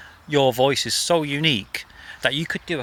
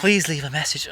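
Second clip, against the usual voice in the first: Joanna Lumley impression. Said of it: "she used to put on, like, a Joanna Lumley".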